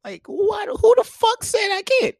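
high squeaky mock indignation; mock outraged back-and-forth. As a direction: play both sides of the spat. Arguing back, mocking the girl.

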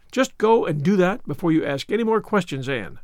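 understated firm order, dropping on the name; immovable. Acted. Marilla sends Anne back to her chore, immovable. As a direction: give a measured, unbending instruction. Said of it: "said Marilla immovably".

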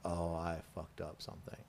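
quiet dread before the drill instructor; dread under breath. Retold or imitated. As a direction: mutter it to yourself in dread. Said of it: "I'm like".

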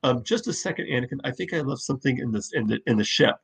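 soft, quick mock Padme excuse; lightly voiced flustered Padme. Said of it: "her response would have been".

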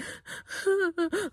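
high, weak mock sobs; imitated sobbing. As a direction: act out whimpering over the bucket. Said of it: "And I'm like".

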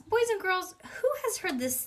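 high-pitched storybook teacher; teacher addressing class. A narrator's reading.

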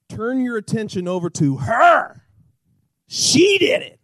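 Adam shouting the blame; accusing shout. Acted. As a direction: point at her and shout. Adam acted accusing Eve.

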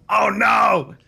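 high loud yelp of alarm; panicked cry. Acted. Villain sees the fireball coming, panicked cry. Blunk Oliver hit by fireball.

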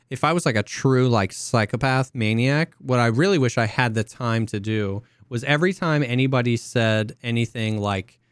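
ordinary talk

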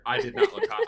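high-pitched laugh through the line. Real, not acted. Admitting to co-hosts how bad he looked, laughing. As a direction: laugh at yourself as you admit it. Laughing at his own outfit.

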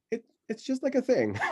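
laughing it off. Retold or imitated. Child brushing off mom, laughing.

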